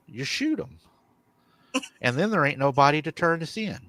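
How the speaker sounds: matter-of-fact retold calm; calm, chilling. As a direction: imitate a wife coolly stating the plan. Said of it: "she just calmly says".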